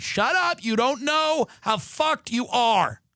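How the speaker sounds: high mocking "shut up"; high mock dismissal; scornful snap. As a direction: cut them off with scorn. Scornful retort to hopeful friend.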